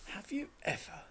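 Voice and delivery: wondering. A narrator's reading. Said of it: "said Hermione wonderingly".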